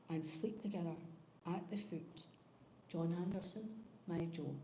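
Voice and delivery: put-on measured, gentle reading of an old Scots poem; poem recitation. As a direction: recite it tenderly, line by line with pauses. Reads Burns poem at service.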